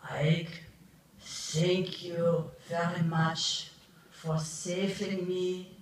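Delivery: put-on a light German accent, deliberately paced thanks. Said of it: "I will do my German accent".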